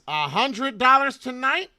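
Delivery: high, slow, loud incredulous mock question; mock Doctor Reed. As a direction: squeal it like a stunned friend. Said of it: "He says".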